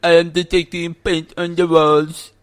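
stiff robotic monotone. Retold or imitated. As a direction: speak like an eighties game robot. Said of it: "it speaks like this the entire time".

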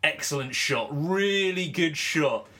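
lightly mocked commentator praise, stretched at the end; a hint of gushing commentator; Nick Knight. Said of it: "he can't just give one adjective".

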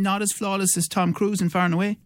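mock praise. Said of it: "Stop, Joe. That's dreadful".

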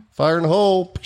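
high, called-out range warning. Retold or imitated. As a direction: imitate calling a warning before a blast. Retold warning call before the blast.

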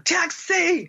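loud, high New York cab-hail; New York accent, shouted for a taxi; New York stereotype. Shown as a demonstration. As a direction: holler it like a stereotypical New Yorker. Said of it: "the stereotype of, of someone in, in New York".

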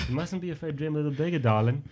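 quick, soft and suave; acted Tom Hardy line. Host redoing Tom Hardy's Inception line, quick and soft. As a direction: purr it out fast and quiet. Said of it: "Tom Hardy's character".

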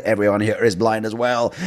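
lightly put-on Aussie accent; joking imitation of an Australian; horrible Australian accent. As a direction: attempt an Australian accent for a punchline. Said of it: "That's my horrible Australian accent".

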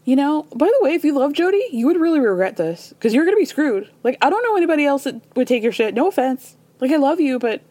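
imitating Larsa being bluntly rude; mock catty friend. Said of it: "So then Larsa says".

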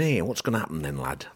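put-on light northern English accent, a chatty farmer asking; a casual northern lad voice, only lightly put on. A farmer on the bus asks about the market, mild northern accent. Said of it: "That's my northern impression".

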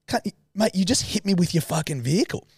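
high, aggrieved comeback; mock outrage, pitched well up; retold indignant protest. Hit pedestrian argues back at the driver, indignant.

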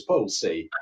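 the word Bullshit said flat with no accent. Shown as a demonstration. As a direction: Bullshit in a neutral voice. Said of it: "no country on earth where anyone ever says".

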